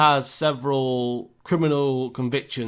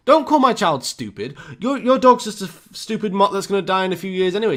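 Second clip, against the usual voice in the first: higher, louder mock outrage; retold angry retort; 5 semitones higher, 3 dB louder than usual. Mother snapping at the man on the bus, angry mock shout. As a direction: snap back hard, defending her child. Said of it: "She goes".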